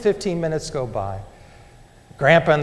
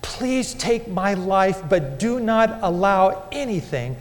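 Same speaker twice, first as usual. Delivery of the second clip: anguished plea; 3 semitones higher than usual. Retold or imitated. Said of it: "I cried out".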